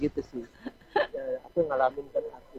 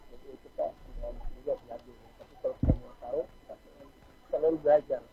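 trailing off quietly, barely audible; fading voice; 7 dB quieter than usual. Real, not acted. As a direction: voice dropping away, much softer. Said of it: "Suaranya makin hilang".

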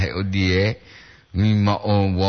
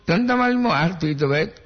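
usual speaking voice

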